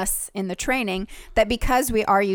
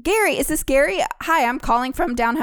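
bright, high, overly cheery phone greeting; high chirpy caller voice; 7 semitones higher than usual. Retold or imitated. Caller greeting the groom on the phone, high and cheery. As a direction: squeal it like a delighted telemarketer. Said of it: "I was like".

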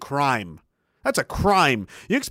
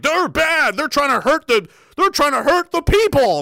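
put-on earnest young recruit; 9 semitones higher, 4 dB louder than usual. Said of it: "It was just like".

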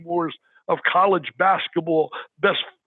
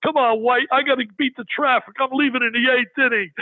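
a hint of an old announcer, a bit higher; Phil Rizzuto; 5 semitones higher than usual. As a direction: lightly imitate a broadcaster griping on air. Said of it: "Phil Rizzuto".

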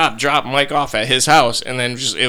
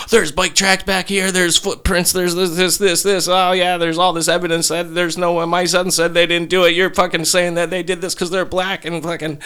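higher-pitched mock rant, point after point; imitated indignant dad; 5 semitones higher than usual. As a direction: act out a dad arguing his kids' case. Dad's angry argument, acted out.

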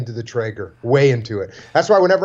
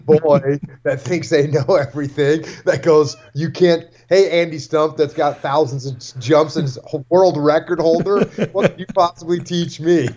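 mock know-it-all teen. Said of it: "as opposed to".

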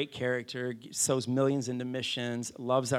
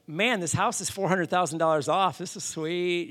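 mildly excited retelling; 4 semitones higher than usual. Retold or imitated. Buyers marvel at the bargain, mildly excited. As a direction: voice the thrill with a little lift. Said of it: "we're excited. We're like".

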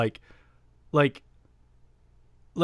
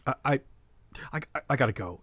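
softer, stammered with long pauses; quiet, halting; 3 semitones lower, 6 dB quieter, much faster than usual. Retold or imitated. Retelling upset guest excusing himself to leave, quiet and halting. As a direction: falter quietly, restarting the first word. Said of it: "he got real quiet".

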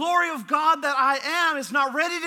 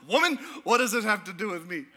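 laughing quote; faster than usual. Retold or imitated.

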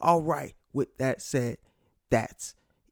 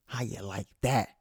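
slow, drawn-out mock gloat; teasing rival fans, slowly; 2 semitones higher, 3 dB louder, slower than usual. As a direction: rub it in to the Red Sox fans. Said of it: "I had to gloat a little bit".

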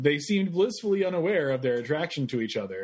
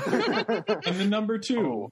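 Sesame Street announcer; 6 semitones higher, slower than usual. Pretend. Sesame Street sign-off parody.

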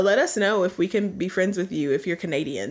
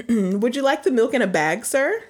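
polite cashier; 4 semitones higher than usual. Pretend. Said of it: "I'm gonna be the cashier".

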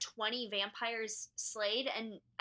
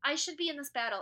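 higher-pitched, emphatic mock heroine; hammed-up insistence; 4 semitones higher, 4 dB louder than usual. Co-host mimicking Elena demanding to join the battle, higher emphatic voice. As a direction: voice a character insisting on joining in.

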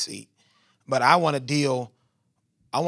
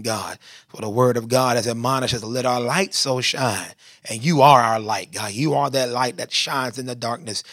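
earnest prayer in rolling repeated phrases, building gradually; public prayer. Real, not acted. Preacher prays to God before the sermon, earnest flowing prayer.

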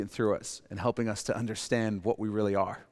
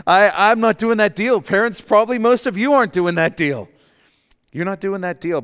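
much louder and higher, punched refusal; emphatic insistence; 8 semitones higher, 10 dB louder than usual. Real, not acted. Preacher to parents in the congregation, loud and emphatic. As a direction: declare it loudly with a laugh in it.

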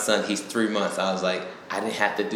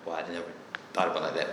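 much softer and lower, humbled; humbled quiet; 5 semitones lower, 11 dB quieter, much faster than usual. Retold or imitated. Husband conceding to his wife, soft and low. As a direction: back down quietly. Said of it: "I was like".

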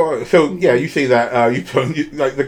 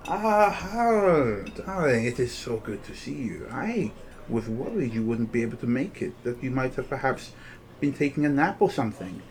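lightly voiced condescending panther-woman; gushing catty rival; 6 dB quieter than usual. Rival greets Hal with mock concern, catty.

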